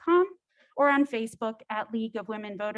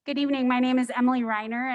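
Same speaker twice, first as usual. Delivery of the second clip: louder, projecting teacher voice; 4 dB louder, faster than usual. Shown as a demonstration. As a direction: address the room like a teacher. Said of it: "I'll just use my teacher voice".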